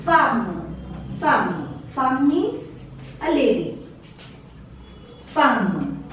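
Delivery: femme said fam, short a; silent E. Shown as a demonstration. Teacher modelling femme for the class. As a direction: clip femme to one syllable, fam. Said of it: "E is silent here".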